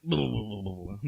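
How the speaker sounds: playful spook noise, fading off; mock scary babble. Mouse scaring the elephants, mock babbling noise. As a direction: babble a silly scare noise.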